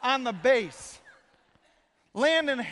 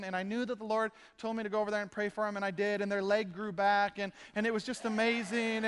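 sweet, gentle voice; 2 semitones lower than usual. Retold or imitated. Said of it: "She's so sweet and so kind".

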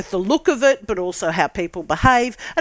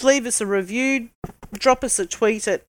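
ordinary delivery

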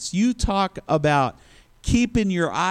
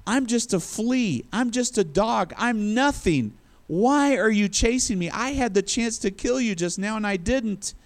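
higher-pitched pleading as David; acted plea; 5 semitones higher than usual. David protests to Saul who chases him, acted pleading. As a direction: plead your harmlessness in a raised pitch.

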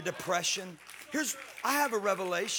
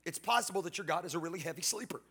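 mock taunting. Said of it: "He's like".

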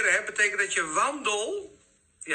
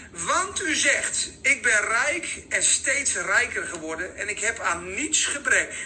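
scripture reading; 4 semitones higher than usual. Acted. Reads scripture aloud.

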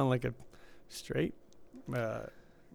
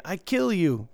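mock threat; 5 semitones higher, 5 dB louder, slower than usual. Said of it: "you don't like my name?".

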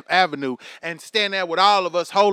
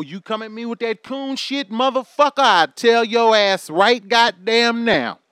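yelled warning; 3 semitones higher, 6 dB louder than usual. Acted. Warning critics, building up.

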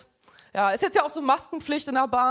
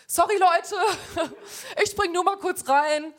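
high giggling voice, slowed at the end; laughing mock apology; 4 semitones higher, slower than usual. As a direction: laugh through a cheeky excuse. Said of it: "dann so sagst".

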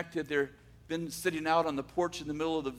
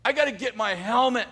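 frantic yelling; 6 semitones higher, 6 dB louder than usual. Retold or imitated. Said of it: "he starts yelling".

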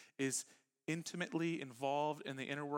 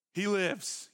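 excited cry; 6 semitones higher, 8 dB louder than usual. Retold or imitated. Disciples proclaiming resurrection.

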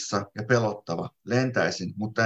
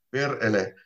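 mumbling with a mouthful of dirt. Acted. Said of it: "minä mumisen suu täynnä multaa".

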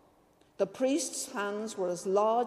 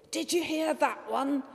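joyful murmur; 6 semitones higher than usual. A narrator's reading. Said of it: "he murmured with a joyful grin".

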